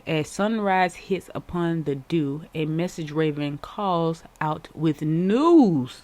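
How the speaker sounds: slow card reading; measured, slow verse reading. Shown as a demonstration. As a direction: read the verse slowly, like an oracle. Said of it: "And it says".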